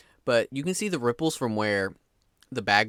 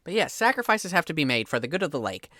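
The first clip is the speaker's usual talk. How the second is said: lightly voiced fisherman, calm and certain; matter-of-fact fisherman; 4 semitones higher than usual. Fisherman repeating his lake creed to the player, matter-of-fact. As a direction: state it like obvious folk wisdom.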